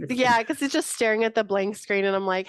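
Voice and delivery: usual speaking voice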